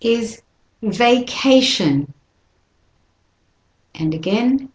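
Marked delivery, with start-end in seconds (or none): 0.8-2.1 slow "vacation", stress on "ca"; model pronunciation. Shown as a demonstration. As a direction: say "vacation" slowly. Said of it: "And the next one".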